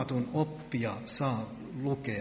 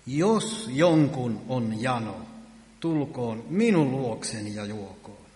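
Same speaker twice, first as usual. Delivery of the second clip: slow, proclaimed call, a touch louder; Jesus crying out; 3 dB louder than usual. Retold or imitated. Preacher voicing Jesus calling to the thirsty crowd, slow proclaiming call. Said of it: "Jeesus nousi seisomaan ja huusi".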